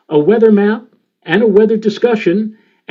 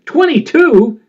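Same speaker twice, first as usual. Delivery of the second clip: much higher, a disbelieving question; incredulous echo; 9 semitones higher, 3 dB louder, slower than usual. Retold or imitated. Veteran Bill hears his forecaster is only twenty-two, incredulous. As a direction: echo the number as if you can't believe it.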